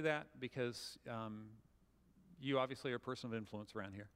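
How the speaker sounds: register it gently, no edge; calm and polite. Shown as a demonstration. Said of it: "say it professionally, calmly, and politely".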